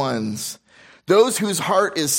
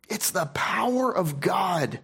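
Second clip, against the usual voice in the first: breathy hushed whisper, slowed down; 4 semitones higher, 4 dB quieter, slower than usual. Acted. Preacher whispering the verse to his congregation, hushed. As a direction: let the scripture fall to a reverent hush.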